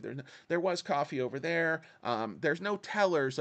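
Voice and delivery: smug clerk explaining the branch makeover; big banker voice. Retold or imitated. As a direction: chirp about plants and coffee like a banker. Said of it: "doing my big banker voice".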